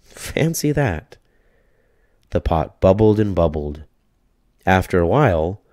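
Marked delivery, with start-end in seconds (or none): 0.0-1.2 put-on high, slow, amazed old lady; old woman marvelling, higher and slower; little old lady, marvelling. A narrator's reading. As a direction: savour the wonder of it. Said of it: "said the little old lady".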